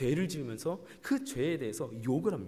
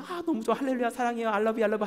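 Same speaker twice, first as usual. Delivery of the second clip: high, louder hammed-up adoration; lovestruck gushing; 5 semitones higher, 5 dB louder than usual. Spouse doting on their beloved yesterday, acted gushing. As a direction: gush like someone madly in love. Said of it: "어제는 좋아 죽겠어".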